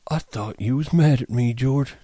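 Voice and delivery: put-on high, childlike Lenny voice; eager simple giant; Lenny's voice. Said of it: "Lenny said".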